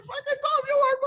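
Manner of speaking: high, awed inner exclamation; telling himself he's walking with a famous singer; starstruck disbelief. Retold or imitated. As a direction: gush it like a starstruck fan. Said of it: "And I'm just like".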